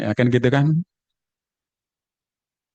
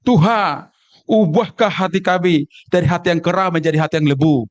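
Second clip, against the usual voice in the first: put-on Sumatran accent with swallowed word endings; Sumatran dialect. Church brother from Sumatra praying for a changed heart, Sumatran dialect. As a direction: pray in a Sumatran accent, kera and lebu unfinished. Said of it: "karena faktor dialek dari Sumatera".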